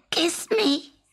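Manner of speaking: whispered kiss me; whispered request. A narrator's reading. Frog on the pillow asking for a kiss, whispering.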